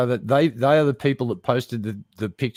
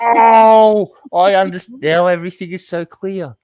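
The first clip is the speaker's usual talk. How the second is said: mock realization; 9 semitones higher, 10 dB louder than usual. Real, not acted. Mock revelation after seeing picture.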